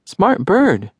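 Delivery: high squawky parrot echo. Acted. Parrot Gracie repeating Crow, high parrot voice. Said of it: "She grinned a parrot grin".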